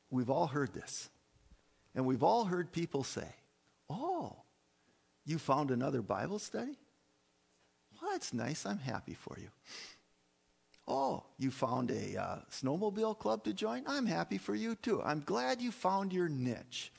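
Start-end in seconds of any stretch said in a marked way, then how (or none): 3.9-9.5 mock-pleased, softening as it goes; patronizing niceness. Churchgoer humoring a friend about Bible study, patronizing. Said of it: "heard people talk like that". 10.9-16.9 mock-happy, lifting into a higher voice; patronizing niceness. Churchgoer congratulating a friend on a snowmobile club, patronizing. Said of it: "heard people talk like that".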